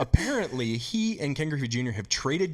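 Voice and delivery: slow, drawn-out pretend sportscaster; incredulous mock news bulletin; mock commentator. Guest announces players traded jobs, mock commentator voice.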